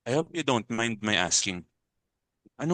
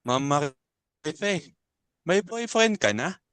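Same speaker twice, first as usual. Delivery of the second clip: slow, drawn-out higher teasing; teasing question; 5 semitones higher, much slower than usual. Acted. To Marife, teasing about a boyfriend, drawn-out tease. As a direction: tease her sing-song.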